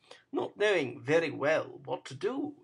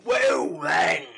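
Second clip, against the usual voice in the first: loud, gruff grunt; a rough man's loud reply; gruff shout; 10 semitones lower, 10 dB louder than usual. Acted. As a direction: bark it out. Sikes answering roughly.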